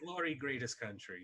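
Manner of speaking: deliberately bad, fake put-on Russian accent. Asked about doing a bad Russian accent the entire time, playing along: bad Russian accent. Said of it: "just do a bad Russian accent the entire entire time? Oh, of course".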